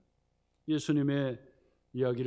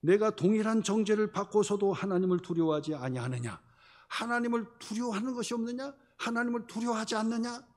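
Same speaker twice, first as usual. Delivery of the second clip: raised, higher stern rebuke; rebuking; 7 semitones higher than usual. Acted. Preacher voicing the thief who rebukes the other, stern rebuke. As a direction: scold him for not fearing God. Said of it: "꾸짖어 말하기를".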